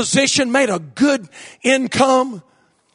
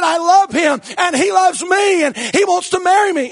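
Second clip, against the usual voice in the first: mock indignant; 5 semitones higher than usual. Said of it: "she got mad".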